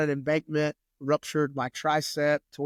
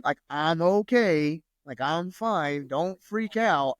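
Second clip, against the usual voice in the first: slow, calm and steady, so his wife won't panic; calm reassurance; slower than usual. Retold or imitated. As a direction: talk her down gently and slowly. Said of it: "I was so calm".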